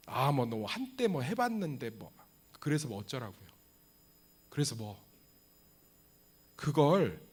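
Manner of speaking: usual speaking voice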